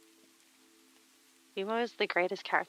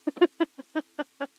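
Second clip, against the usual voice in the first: laughing; 7 semitones higher, 6 dB louder than usual. Real, not acted. Laughs at own impression.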